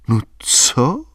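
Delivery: breathy whispered question. A narrator's reading. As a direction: whisper it close. Albína whispers to the sulking boy.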